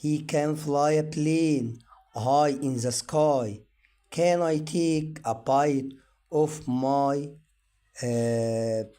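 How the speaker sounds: very slow, word by word, each word stressed; slow reading for learners. Shown as a demonstration. Teacher reads sentences slowly for students. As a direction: read it out slowly for beginners to follow. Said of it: "ونقراها مع بعض".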